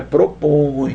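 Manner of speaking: "propõe" with the final õe drawn through the nose; nasal vowel. Shown as a demonstration. Teacher testing the verb for students, nasal "propõe". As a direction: let the ending of "propõe" hum nasally. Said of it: "o dedinho no nariz".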